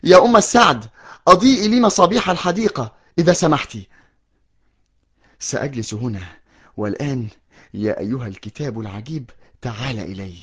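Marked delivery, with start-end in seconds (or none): 5.4-10.3 low and much softer, drifting toward sleep; drowsy hush. Acted. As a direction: murmur to the book as sleep comes. Alone, drowsy with the book. (همس ناعس خافت)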